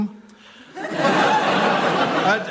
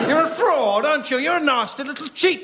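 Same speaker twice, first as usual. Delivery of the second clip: higher, accusing outburst at the fake; indignant ghost; 4 semitones higher than usual. Ghost berating the fraud medium, higher and indignant. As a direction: tell the cheat off.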